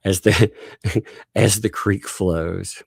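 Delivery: slow, dramatic soap title again, with a laugh before it; soap opera title. Pretend. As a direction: announce it like a melodrama opener. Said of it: "great soap opera".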